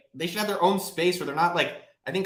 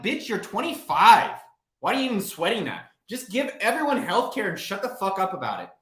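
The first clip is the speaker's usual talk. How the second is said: blunt retort; 4 semitones higher than usual. Retold or imitated. Telling a twenty-five-year-old to stop worrying, exasperated. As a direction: tell the kid off without patience. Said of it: "I'm like".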